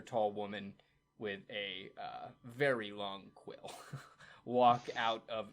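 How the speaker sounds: usual speaking voice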